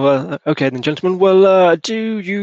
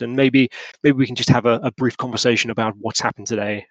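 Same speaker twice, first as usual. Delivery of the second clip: hospitable gentleman. Acted. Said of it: "George Lush says".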